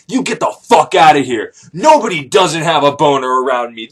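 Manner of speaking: loud, indignant telling-off; acted outrage. Offended lover throwing out the man, mock outraged.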